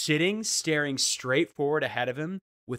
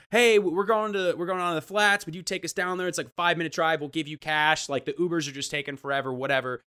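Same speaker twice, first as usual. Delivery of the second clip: bright, eager ask for a ride; eager pleading; 3 semitones higher than usual. Retold or imitated. To the driver, eagerly begging for a lift. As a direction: talk a stranger into a ride with cash.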